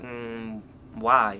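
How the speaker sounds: hushed, wary question; quiet retold mom. Mom quietly asking why he wants to leave, soft.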